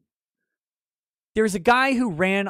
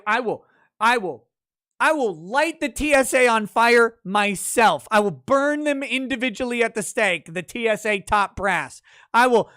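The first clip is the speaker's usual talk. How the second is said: mock furious rant; 3 semitones higher than usual. Streamer ranting at the TSA, hammed-up fury building. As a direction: rant it like an over-the-top avenger.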